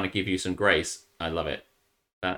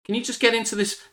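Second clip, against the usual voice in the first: mock friendly request; 9 semitones higher, 5 dB louder than usual. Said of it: "And said".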